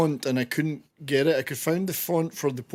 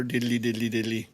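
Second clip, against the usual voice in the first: hammed-up stage Irish, lower; a jokey Irish lilt; mock Irish diddly; 3 semitones lower than usual. Joking about the Irish filming location in mock Irish. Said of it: "To be sure".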